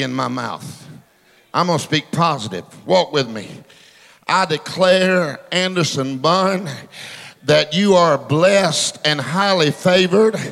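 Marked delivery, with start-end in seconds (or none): 4.3-10.4 slow declaration. Real, not acted. Declaring blessing over a man.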